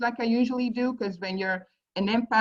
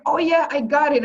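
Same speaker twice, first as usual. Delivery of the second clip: mock excited; 7 semitones higher, 7 dB louder than usual. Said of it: "you think like".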